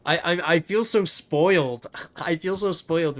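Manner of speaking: delighted. Real, not acted. Delighted by the loot haul.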